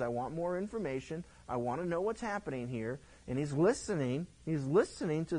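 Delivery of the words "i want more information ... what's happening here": softer, calm asking for information; a hint of a quieter king asking; quiet request. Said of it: "He says".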